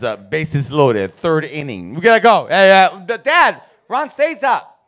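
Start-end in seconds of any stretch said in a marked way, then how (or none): 1.9-2.5 urgent pleading. Retold or imitated. Sister urging dad. 2.5-4.8 put-on excited kid voice. Kid pleading with dad.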